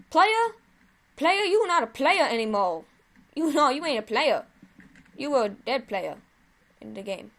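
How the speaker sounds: loud, high mocking taunt at the dead enemy. Real, not acted. Gamer taunting the player he just killed. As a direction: rub it in his face.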